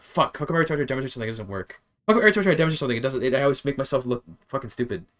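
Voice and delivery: exasperated, rushed outburst at own mistake; frustrated self-reproach. Real, not acted. Teacher cursing own botched example to the class, exasperated. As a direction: vent real frustration at yourself.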